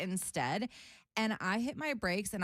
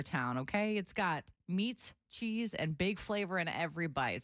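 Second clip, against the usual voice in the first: ad read; 3 semitones lower than usual. Acted. Reads sandwich ad.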